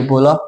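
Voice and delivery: "बोला" with the last vowel held; lengthened final syllable. Shown as a demonstration. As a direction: stretch the "ला" of "बोला". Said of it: "लंबा बोलना है".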